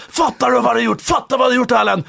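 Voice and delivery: a hint of a stern coach, "Fattar du hva du har gjort" pressed out firmly; coach Gunder's telling-off. Coach Gunder scolding Erlend in front of the group, lightly voiced stern coach. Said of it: "Erlend Ormestad".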